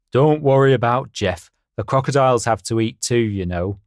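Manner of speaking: confident horse voice. Acted. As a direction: puff up like a proud horse. Harry voiced in story.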